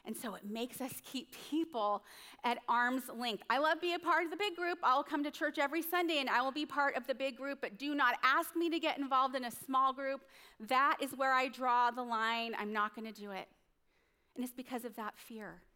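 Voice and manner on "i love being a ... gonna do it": brisk, emphatic imitation of a reluctant churchgoer; firm refusal. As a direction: act out drawing a firm line.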